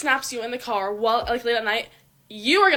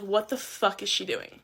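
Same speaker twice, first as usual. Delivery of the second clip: quiet puzzled guy's thoughts; 4 semitones lower, 6 dB quieter, slower than usual. Retold or imitated. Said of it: "he's gonna be thinking".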